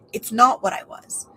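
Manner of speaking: hushed whisper on the contrast. Real, not acted. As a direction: drop to a breathy whisper. Contrasting what she is and was.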